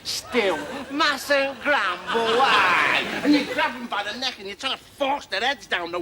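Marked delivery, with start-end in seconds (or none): 0.9-2.4 mustn't grumble. Retold or imitated. Repeated catchphrase, slow.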